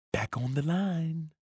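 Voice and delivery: almost whispering. A narrator's reading. Coach leans in to repeat the order softly. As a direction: lean in and say it lightly. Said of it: "almost as if he were whispering".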